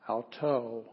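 "auto" stressed on its final syllable; "auto" said as ow-TOE; stress on last syllable. Shown as a demonstration. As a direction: lean on the "to" of "auto". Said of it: "the emphasis on the last syllable".

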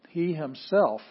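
he punched loud; stress on he. Shown as a demonstration. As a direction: hit the word he hard. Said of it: "This says".

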